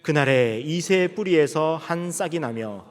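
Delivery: 느리고 또박또박한 성경 봉독; 회중과 함께 읽듯 길게 끌며 낭독하기. Real, not acted. (느린 성경 낭독조)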